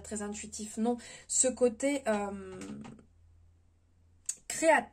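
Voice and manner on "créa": higher, halting stumble on the word; stammering. Real, not acted. Tarot reader hunting for the right word, stammering. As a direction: break the word off, then restart it slowly and louder. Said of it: "pardon, je bégaye".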